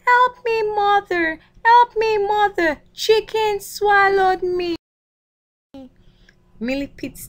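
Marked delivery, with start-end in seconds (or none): 0.0-4.7 high, loud pleading cry to mother; frightened cry for help. Acted. Swallowed millipede crying to his mother, high and loud. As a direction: shriek for mother as if swallowed whole. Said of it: "the millipede said".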